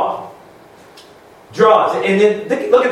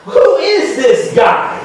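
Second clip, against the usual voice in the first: mock shocked congregant; 5 semitones higher, slower than usual. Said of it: "you'd be going".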